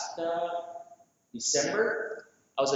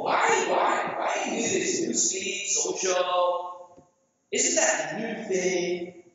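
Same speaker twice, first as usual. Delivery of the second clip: incredulous why; slower than usual. Retold or imitated. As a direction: act puzzled by the newsfeed plan, half-hearted. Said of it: "I go".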